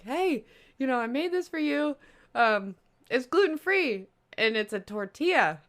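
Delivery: lightly voiced eager gift giver; imitating a coworker. Coworker handing over a wrap, lightly voiced eager tone. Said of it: "and was like".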